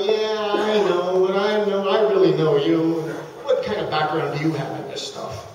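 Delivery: mildly doubtful, imitating a wary prospect; lightly voiced skepticism; skeptical prospect. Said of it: "that look of skepticism".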